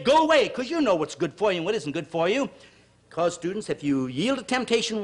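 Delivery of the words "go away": higher, louder mock rebuff; refusing the devil. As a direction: shoo the tempter away sharply. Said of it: "You say".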